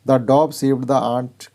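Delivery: reads the English sentence very slowly, word by word; slow clear reading. Shown as a demonstration. Teacher reading an example sentence to pupils, very slow. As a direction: spell it out slowly for the class. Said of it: "reading example sentences slowly".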